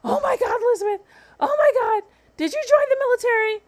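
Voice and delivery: high-pitched mock panic; hammed-up alarmed squeal of disbelief; imitating mother's meltdown. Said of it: "started having a freaking meltdown".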